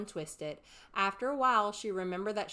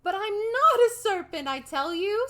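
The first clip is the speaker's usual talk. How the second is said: high, loud insistent denial; Alice, protesting; 13 semitones higher, 12 dB louder than usual. A narrator's reading. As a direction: stress on not.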